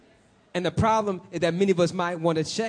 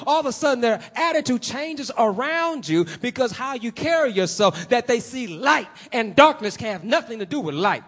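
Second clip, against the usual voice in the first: raised, emphatic sermon delivery; forceful preaching; 5 semitones higher than usual. Real, not acted. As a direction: preach it with rising conviction. Preacher lifts into forceful proclamation.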